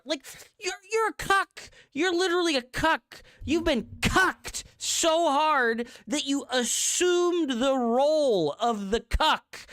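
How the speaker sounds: high, heated yelling; angry rant. Real, not acted. Streamer insulting a fellow player, heated high yelling.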